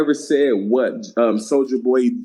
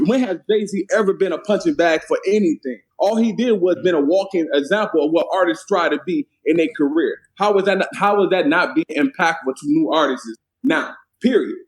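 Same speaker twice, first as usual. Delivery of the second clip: voice rising in debate; 3 semitones higher than usual. Real, not acted. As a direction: argue it with the pitch pushed up. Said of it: "voice went up a couple octaves".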